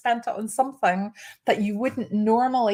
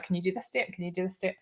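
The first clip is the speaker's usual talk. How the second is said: softer, lightly voiced colleague asking; mild quiet asking; 8 dB quieter, faster than usual. Colleague quietly asking about dates while they sort diaries. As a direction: murmur the question twice. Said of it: "So she was like".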